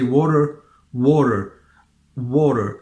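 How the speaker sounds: WATER ending in a smooth English r. Shown as a demonstration. Teacher gives an English example, smooth R in water. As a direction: finish WATER on an untrilled American-style r. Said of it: "So it is not R".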